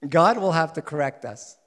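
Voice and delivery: said with a smile. Real, not acted. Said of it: "I'm saying that with a smile".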